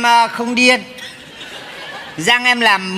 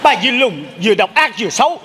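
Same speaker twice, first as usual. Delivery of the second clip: possessed husband yelling; 2 semitones lower than usual. Acted. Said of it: "sao giống chồng tôi vậy".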